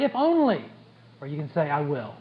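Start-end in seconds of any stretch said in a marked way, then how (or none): 0.0-0.6 wistful if only. Shown as a demonstration. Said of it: "That little shift". 1.7-2.1 firm resolve. Shown as a demonstration. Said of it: "That little shift".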